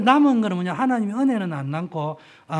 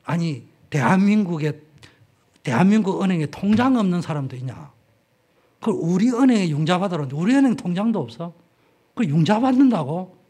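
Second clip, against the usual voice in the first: incredulous banker; 6 dB louder than usual. Retold or imitated. Banker's disbelief voiced.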